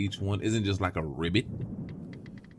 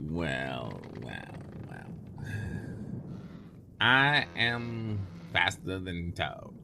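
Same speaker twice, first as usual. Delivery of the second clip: mock donkey; 3 semitones lower, 7 dB quieter, slower than usual. Mock donkey after story.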